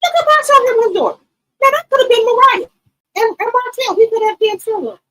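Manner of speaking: high, loud excited gush; gushing loudly at the screen. Real, not acted. Streamer gushing at a reality show, excited.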